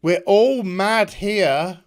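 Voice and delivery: mock eerie Alice. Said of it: "And then she says".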